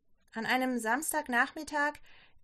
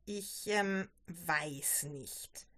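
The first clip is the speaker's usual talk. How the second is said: halting, sinking lower and softer; hesitant stammer; 6 semitones lower, 5 dB quieter, much slower than usual. A narrator's reading. Daughter unsure about marrying, stammering hesitantly. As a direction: falter and trail down, unsure. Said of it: "stotterte Barbara".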